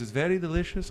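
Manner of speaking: badly faked German saleswoman voice; bad German accent. German saleswoman offering a taste, bad German accent. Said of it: "I can't do a German accent".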